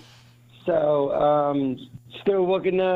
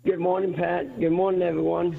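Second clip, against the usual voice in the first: sick hoarse voice. Real, not acted. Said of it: "I can hear it in his voice".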